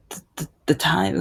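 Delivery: imitated stammer, repeating the first word; stumbling over words. Retelling her reply to the doctor, stumbling. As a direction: stumble into the sentence, restarting. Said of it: "I was stumbling with my words".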